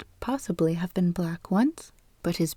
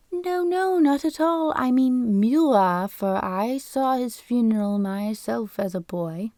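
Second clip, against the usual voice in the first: put-on squeaky old man starting much higher, then settling; high indignant falsetto protest from a fussy clerk; 4 semitones higher than usual. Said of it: "in a falsetto voice".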